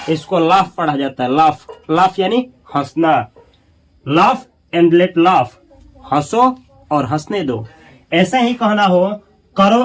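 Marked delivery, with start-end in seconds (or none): 4.1-5.5 drawn out, word by word; slow model reading. Shown as a demonstration. Teacher drilling the phrase for students, very slow. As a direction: say it slowly for learners. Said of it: "teacher models the English phrase".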